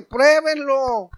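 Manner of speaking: slow, loud, voice breaking with tears; tearful plea. Acted. Believer testifying to people, tearful plea. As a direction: cry out the invitation.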